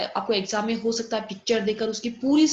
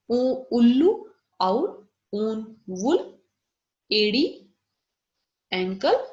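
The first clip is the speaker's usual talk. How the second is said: slow clear review; 5 dB louder, much slower than usual. Shown as a demonstration. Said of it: "तो बार बार आप सुन लेना".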